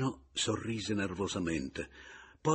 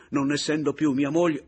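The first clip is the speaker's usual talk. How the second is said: retorting; 8 semitones higher, 11 dB louder than usual. Acted. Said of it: "rimbeccò Pomino".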